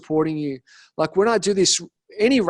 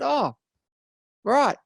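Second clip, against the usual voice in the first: high, slow oh, right, then a blunt bullshit; mock disbelief; 8 semitones higher, slower than usual. Calling out his client's excuse, high mock disbelief. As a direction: call the excuse out flatly.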